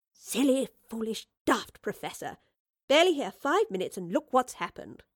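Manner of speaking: exasperated, emphatic self-reproach; cross with herself, voice lifted; scolding herself. Acted. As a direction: tell yourself off word by word. Professor scolds herself over the theft.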